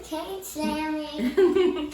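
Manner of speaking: a loud, drawn-out call of the name. Real, not acted. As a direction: call the snake as it goes back to its cage. Child calls out to the snake.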